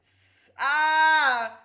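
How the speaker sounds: loud, high cry breaking out of an S; pained S attempt. Shown as a demonstration. Streamer shows chat why S hurts, loud pained cry. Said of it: "So I can't, like".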